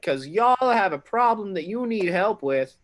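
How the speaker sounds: mock Canadian bluster at the guard; Canadian accent. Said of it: "I am not from Fantasy Canada".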